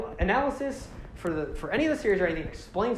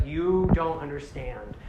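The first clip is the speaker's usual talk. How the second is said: lightly voiced brooding villain, slow and low; grave confession, drawn out and low; slow, low solemn villain; 4 semitones lower, 4 dB quieter than usual. Makuta explains his duty to his brother, slow and low. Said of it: "he's like".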